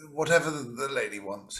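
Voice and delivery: sleepy gallant. Acted. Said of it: "he says".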